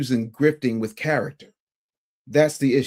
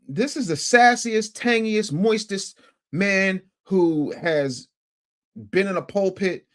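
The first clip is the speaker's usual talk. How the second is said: mocking; 4 semitones higher, slower than usual. Mocking the pastor's flamboyance.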